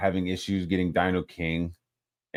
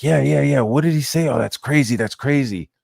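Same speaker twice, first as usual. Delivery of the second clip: higher-pitched mock eager reaction; mock egging-on; 5 semitones higher than usual. The speaker fluffing Liam in his chat, mock eager. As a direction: imitate someone egging a friend on. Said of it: "Just fucking fluffing him".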